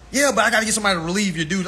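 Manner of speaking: fast, clipped-off rattle of an excuse; dismissive supervisor. Retold or imitated. Line leader brushes off worker's bathroom request, fast and dismissive.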